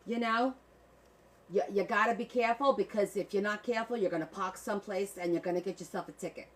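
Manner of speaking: park the car like a Bostonian, hammed up a bit; Boston accent. Streamer doing Boston accent at chat's request. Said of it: "You want me to do Boston?".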